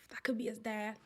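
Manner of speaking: soft unvoiced whisper of the thought. Real, not acted. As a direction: breathe it like a secret. Whispered before repeating aloud.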